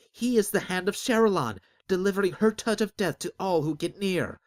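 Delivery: high, loud fearful denouncing; loud accusation. Acted. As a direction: point and cry out in dread. Crowd accuses loudly.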